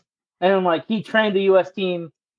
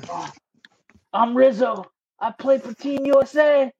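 proud player answer; 4 semitones higher than usual. Retold or imitated. Player Rizzo finally answers right.

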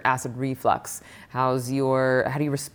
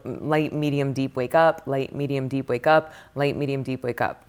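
repeating short cycles. Shown as a demonstration. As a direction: run the same cycle round and round. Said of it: "signatures look like this".

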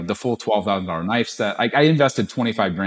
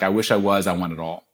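deadpan; 3 semitones lower than usual. Retold or imitated. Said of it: "with a deadpan face".

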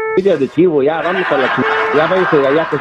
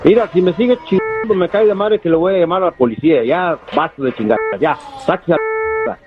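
angry; 2 semitones higher than usual. Real, not acted. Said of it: "Está bien enojado".

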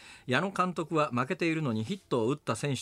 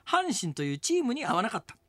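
reading Emoto's words; 4 semitones higher than usual. Retold or imitated. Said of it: "エモヤンこう答えてます".

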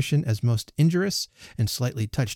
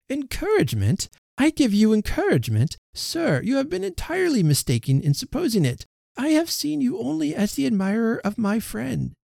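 much higher, incredulous and cutting; a lady's high, scandalized rebuttal; indignant Emma; 6 semitones higher than usual. Acted. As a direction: refuse him with shocked disdain.

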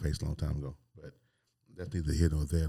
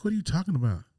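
higher, feigned innocence; playing dumb; 10 semitones higher, faster than usual. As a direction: act baffled. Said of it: "I'm like".

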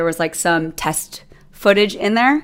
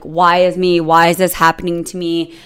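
mock self-pity; 4 dB louder than usual. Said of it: "type of mentality".

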